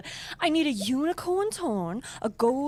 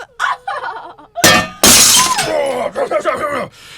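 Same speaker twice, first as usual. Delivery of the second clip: much louder villain cackle; evil cackle; 4 semitones higher, 13 dB louder than usual. Acted. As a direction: cackle as the stew nears done. Witch gloats before adding children.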